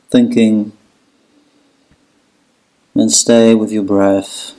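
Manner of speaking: steady meditation guide with long pauses; guided relaxation. Acted. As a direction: lead them into letting go, unhurried, even-toned. Guides breathing and relaxation in child's pose.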